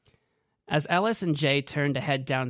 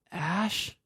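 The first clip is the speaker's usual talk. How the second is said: eerie call; 6 semitones higher than usual. A narrator's reading. Ghostly Dana calls.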